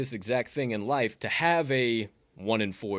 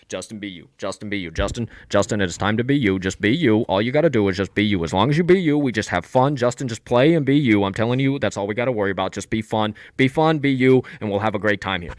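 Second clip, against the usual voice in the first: louder, insistent, chanting coach; mock coach pep talk; 7 dB louder than usual. Mocking Nagy through the headset to Justin, loud chanting coach. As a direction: pump him up over and over. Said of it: "And he just".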